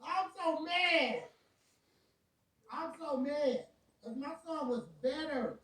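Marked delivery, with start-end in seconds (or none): 0.0-3.7 laughing anger. Real, not acted. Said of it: "how pissed I am".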